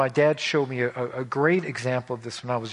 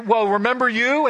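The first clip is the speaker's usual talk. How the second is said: mock comeback; 10 semitones higher, 7 dB louder than usual. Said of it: "They're gonna".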